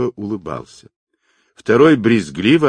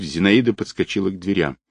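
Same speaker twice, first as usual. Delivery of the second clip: usual speaking voice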